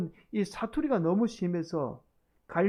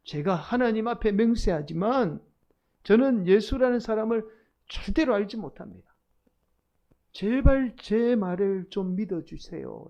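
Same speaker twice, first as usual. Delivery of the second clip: mildly raised, pleading oath; sworn denial; 2 semitones higher, 4 dB louder than usual. Acted. Peter swearing before God he doesn't know Jesus, pleading denial. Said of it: "맹세까지 하며 예수님을 모른다고 부인합니다".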